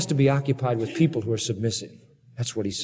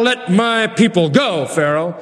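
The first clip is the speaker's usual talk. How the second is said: commanding Moses; 2 semitones higher, slower than usual. Acted.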